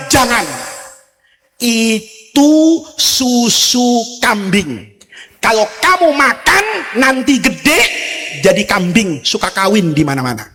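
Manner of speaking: slow, drawn-out warning; angel's warning. Acted. Gabriel warns baby Moses off goat milk, slowly and solemnly. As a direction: stretch "Itu susu kambing" like a solemn angel. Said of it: "Jibril bilang".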